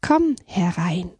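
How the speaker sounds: slow, calm beaver's invitation; calm welcome. Acted. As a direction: invite the frightened guest in slowly. (ruhig einladend)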